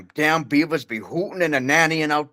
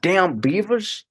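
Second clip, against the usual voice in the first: grandpa grumble; 4 semitones higher, slower than usual. Pretend. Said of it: "Shut up, Grandpa".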